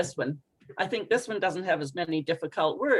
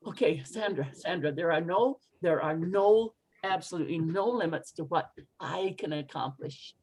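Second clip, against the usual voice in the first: self pep talk; 4 semitones lower, 4 dB quieter than usual. Shown as a demonstration. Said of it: "talking to myself when I'm in doubt".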